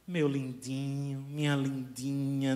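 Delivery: soft, low cooing of pet names; loving baby talk. Retold or imitated. Person in love talking softly to their darling. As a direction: murmur sweet nothings close to a loved one. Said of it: "a gente fala baixinho".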